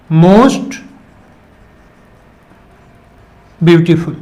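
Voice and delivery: slow, drawn-out delivery with long pauses; slow dictation. Shown as a demonstration. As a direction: give the superlative slowly for the class. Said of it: "more beautiful".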